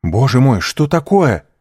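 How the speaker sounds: anxious sudden alarm; a touch of fright. A narrator's reading. Dantes alarmed by the cry.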